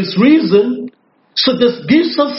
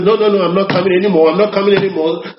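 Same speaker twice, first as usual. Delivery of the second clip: quick, offhand brush-off in mock careless tone; mock casual cancelling; offhand dismissal; much faster than usual. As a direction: toss off the refusal lightly, rattling fast. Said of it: "Something lightly like this".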